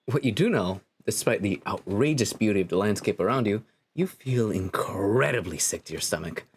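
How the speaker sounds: low, measured storyteller; game narration. Acted. Narrator telling a player how they woke on a beach, measured narration. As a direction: narrate it evenly, a little low.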